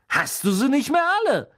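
high, loud, panicked gasp; gasping in shock. Acted. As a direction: blurt it out, horrified at the name. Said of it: "keuchte Stan".

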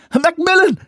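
high, loud gurgled cry; gurgling. Acted. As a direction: call through water in the mouth. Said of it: "gurgelte sie".

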